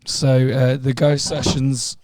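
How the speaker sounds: hoarse from screaming for days; raspy, worn-out voice after screaming. Real, not acted. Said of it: "It's me and my sexy voice. I've been screaming for two days straight".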